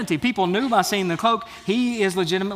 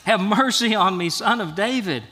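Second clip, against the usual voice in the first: raised, insistent plea for mercy; crying out more; 2 semitones higher than usual. Acted. Beggar ignoring the crowd's warnings, crying out all the more. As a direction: call out more urgently, moderately acted. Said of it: "he was crying out all the more".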